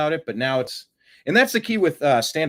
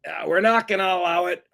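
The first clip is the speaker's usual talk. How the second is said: mock Trump voice; 4 semitones higher than usual. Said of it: "He's like".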